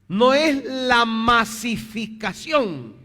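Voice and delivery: "masificación" slow, high and loud; emphatic denial. Real, not acted. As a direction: stretch "masificación" out loudly to reject it. Contrasta lo que no es la misión. ("masificación" recalcado, lento, agudo y fuerte)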